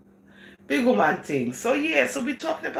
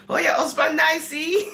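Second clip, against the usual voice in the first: tag-free imagined compliment; 6 semitones higher, 4 dB louder than usual. Acted. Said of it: "Y'all would not be giving me no compliments".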